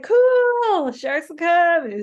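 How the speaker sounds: high, loud, drawn-out "cool"; naive enthusiasm. Retold or imitated. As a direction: play up blissfully clueless delight. Retelling own naive reply, unworried.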